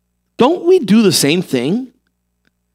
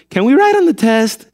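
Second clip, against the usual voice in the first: mock student question, higher and rising; clueless pupil; 4 semitones higher than usual. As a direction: ask it like an oblivious kid. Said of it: "somebody say".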